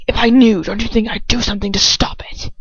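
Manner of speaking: hushed, urgent half-whisper; tense whisper. A narrator's reading. Draco hissing back at his father in a tense whisper. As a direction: breathe it out through tension. Draco snaps at Lucius in fic.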